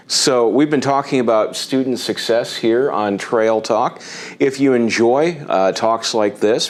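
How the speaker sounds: upbeat, projected host outro; show sign-off. Acted. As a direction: wrap up the programme like a presenter. Host reads the show's sign-off.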